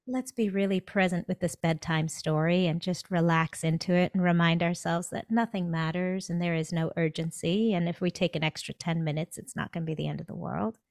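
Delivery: easy, even, soothing self-talk; calm reassurance. Acted. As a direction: reassure yourself there is no rush. Imagined calm bedtime self-talk.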